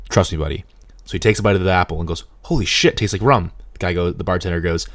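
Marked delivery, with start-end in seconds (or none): 0.1-0.6 low, serious bartender line; deadpan serious. Retold or imitated. Bartender reassuring the doubtful customer, low and serious. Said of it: "with a very serious face". 2.4-3.5 amazed. Retold or imitated. Customer biting the apple for the bartender, acted amazement.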